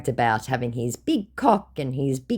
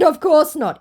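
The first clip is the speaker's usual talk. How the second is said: high, loud, dismissive; snooty high voice; 14 semitones higher, 8 dB louder than usual. Retold or imitated. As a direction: brush him off loftily. Her own retort, acted.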